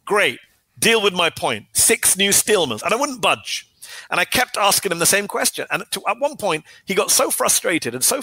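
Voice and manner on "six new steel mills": each word spaced and firm; slow insistent repeat. Retold or imitated. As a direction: hammer the point home slowly.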